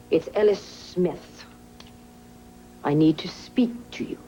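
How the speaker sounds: acting out every part while dictating. Shown as a demonstration. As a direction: speak all the voices aloud for the scribe. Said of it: "read that back to me".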